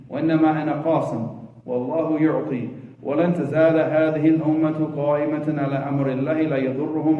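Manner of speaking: quick, fluent Arabic recitation; hadith recitation. Acted. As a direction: recite the narration briskly in Arabic.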